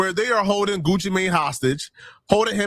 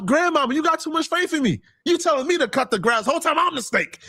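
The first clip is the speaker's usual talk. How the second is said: mock snake confession; 10 semitones higher than usual. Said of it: "He told his own grandmama".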